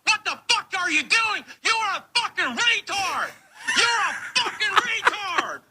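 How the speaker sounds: shouting insults, voice rising; furious, half laughing insults; angry. Real, not acted. Screaming insults.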